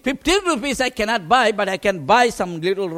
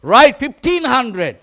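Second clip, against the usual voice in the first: teasing order; 7 dB louder, slower than usual. Retold or imitated. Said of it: "He laughed at me and said".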